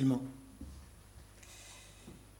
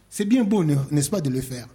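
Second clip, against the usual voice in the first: ironic; 7 dB louder than usual. Real, not acted. Ironic preaching.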